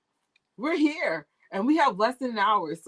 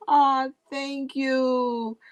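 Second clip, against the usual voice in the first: touched; 6 semitones higher, much slower than usual. Real, not acted. Touched by viewer's comment.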